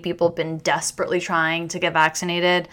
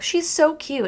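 gushing answer; 9 semitones higher than usual. Retold or imitated. Boys answering her question.

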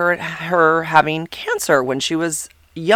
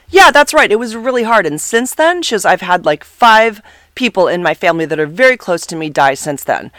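yelling; 4 semitones higher, 5 dB louder than usual. Retold or imitated. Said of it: "she's yelling at me".

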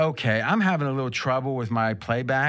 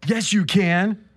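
a bit higher Adrian; 4 semitones higher, 4 dB louder, slower than usual. Acted. Adrian arguing back to Rocky, higher. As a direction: lift it as Adrian. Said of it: "I'm stuck with Adrian".

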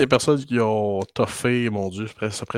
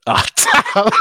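surprised cry; 9 dB louder than usual. Real, not acted. Sudden cry at the card.

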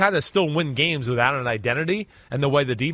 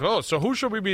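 lightly mimicked TV host, pitched up; put-on host voice; 5 semitones higher than usual. Co-host imitating partner hosting Football Night, lightly put-on voice. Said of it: "'cause I put on that voice".

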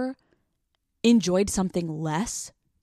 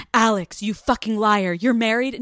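louder, slow, accusing shock; mock outrage; 2 semitones higher, 5 dB louder than usual. Fans accusing Alex of secretly marrying, loud mock outrage. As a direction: call her out like a betrayed fan. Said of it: "And everyone's like".

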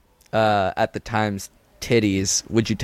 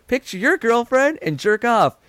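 silly high voice; 11 semitones higher than usual. Pretend. Acted movie scene.

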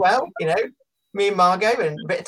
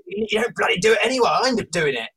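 a light mock Australian accent; half-hearted Aussie wife nagging; jokey Australian accent, barely put on; 4 semitones higher than usual. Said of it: "that's the perfect Australian accent".

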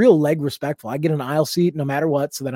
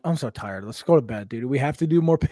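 grumpy and tired; 2 semitones lower, 3 dB quieter than usual. Retold or imitated. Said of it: "a whole different side where I'm like".

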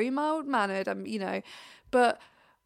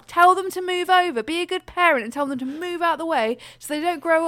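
louder exasperated inner rant; mock angry rant; 4 dB louder than usual. Runner venting at blocking families, mock angry. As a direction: vent at the snotty kids' parents. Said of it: "I do think in my head".

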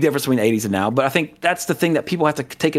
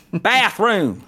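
higher-pitched mock Japanese accent; one word in a put-on Japanese accent; imitated Japanese-accented English; 5 semitones higher than usual. Shown as a demonstration. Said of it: "say it like a Japanese person would".

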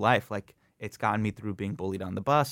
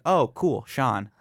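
imitating classmates; 3 semitones higher, 5 dB louder, much slower than usual. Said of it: "people would be like".

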